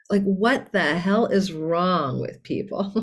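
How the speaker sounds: slow, exasperated rant. Real, not acted. Astrologer venting about YouTube criticism, exasperated. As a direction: stretch it out in disbelief at the critics.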